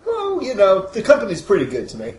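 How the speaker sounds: high, chipper corporate mascot voice; beaming, over-sweet salesman; cheery spokesman. Acted. Mister Smiley voice.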